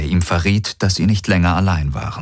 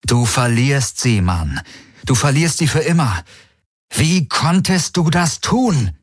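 scolding inner voice; 8 semitones higher than usual. A narrator's reading.

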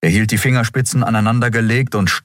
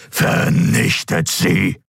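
slow, hissed order; cold command; much slower than usual. A narrator's reading. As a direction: breathe the order out coldly. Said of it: "befahl der Kaiser". (kalt zischender Befehl)

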